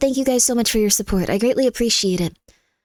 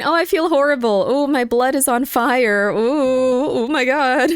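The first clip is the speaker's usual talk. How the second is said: mock anguish; slower than usual. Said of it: "How about instead of going".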